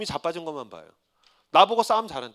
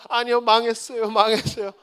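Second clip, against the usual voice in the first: mock relapse; 3 semitones higher than usual. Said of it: "그리고".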